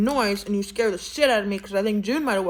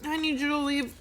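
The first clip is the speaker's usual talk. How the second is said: awkward polite dismissal; 7 semitones higher than usual. Acted. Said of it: "Doe was like".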